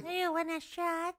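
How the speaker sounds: inhaled ditzy-blonde voice; playful alter ego, unlike your own voice; put-on character voice. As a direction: play a dumb blonde, air sucked in. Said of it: "So you talk like that".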